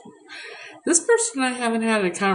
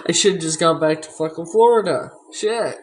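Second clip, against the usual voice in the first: frustrated outburst; 5 dB louder than usual. Real, not acted. Frustrated outburst about moving.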